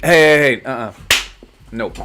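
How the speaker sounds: loud, high warning; sharp scolding. Real, not acted. Owner shouting at jumping dogs, loud and high. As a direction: stop the dogs in their tracks.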